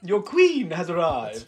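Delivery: grand queen entrance. Retold or imitated. Quoting Elizabeth's grand entrance.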